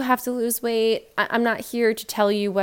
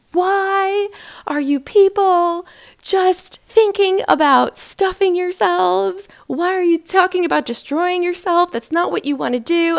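high, loud, slow mock rant; a slow, loud re-enactment of her own frustrated rant; retold anger; 10 semitones higher, 7 dB louder than usual. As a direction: replay how mad she got, much higher and louder. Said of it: "I was getting mad".

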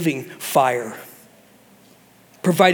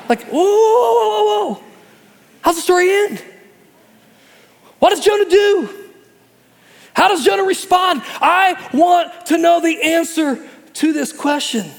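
high, loud "whoa" with a laugh; stunned excitement; 12 semitones higher, 4 dB louder than usual. Real, not acted. Preacher reacting to Jonah's sudden ending, loud and amazed. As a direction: burst out amazed and demanding an answer.

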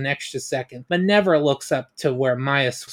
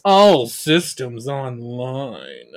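slow, lower, mechanical computer voice; lightly voiced robot, slow and even; robotic report; 4 semitones lower, much slower than usual. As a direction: read it like a machine status readout.

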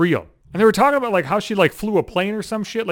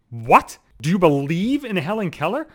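perked-up surprise. Retold or imitated. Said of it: "I perked up".

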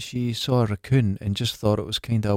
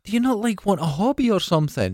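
retold plea; 8 semitones higher than usual. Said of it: "I remember saying to her".

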